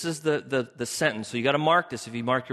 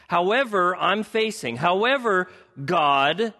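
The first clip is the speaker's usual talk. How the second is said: Abram complaining; 4 semitones higher than usual. Acted. Pastor voices Abram's complaint to God.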